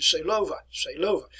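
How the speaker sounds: Seelöwe said as German, "zay-LUR-vuh"; German pronunciation. Shown as a demonstration. History teacher gives the operation's German name, Seelöwe in German pronunciation. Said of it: "if we put it in German".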